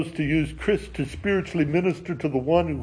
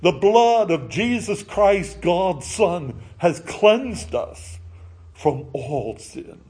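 lifted, slowing solemn declaration over music; reverent proclamation; slower than usual. Acted. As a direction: proclaim the verse reverently, drawing out the end. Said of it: "the words of forgiveness written".

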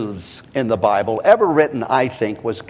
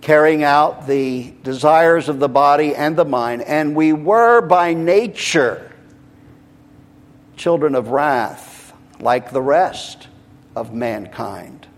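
rhythmic reading, raised then settling down; deliberate scripture reading; 3 semitones higher than usual. Real, not acted. Preacher reading of children of wrath, deliberate, falling off at the end. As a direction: start emphatic, let the verse fall away. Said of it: "very deliberately, rhythmically".

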